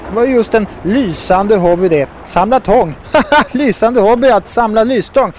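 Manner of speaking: hammed-up guffaw at own wit; amused guffawing. A narrator's reading. Herr Buffo mocking the fishermen's hobby, guffawing. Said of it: "bröt ut i sitt vanliga gapskratt".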